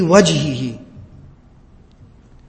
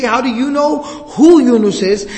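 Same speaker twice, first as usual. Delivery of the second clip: higher, astonished question; shocked; 4 semitones higher, 3 dB louder, slower than usual. Acted. Servant astonished the Prophet knows Yunus, raised shocked question. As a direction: ask it like you can't believe your ears. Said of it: "he's so shocked".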